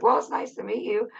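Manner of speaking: high bright pleasantry; sweet cheerful reply. Retold or imitated. Answering the stranger after the mix-up, high and sweet. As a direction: chirp it sweetly and innocently.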